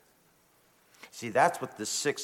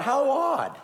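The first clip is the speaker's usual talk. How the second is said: lightly voiced bemused inner thought; muse, amused and puzzled; a hint of wry puzzlement; 4 semitones higher than usual. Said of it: "And I thought".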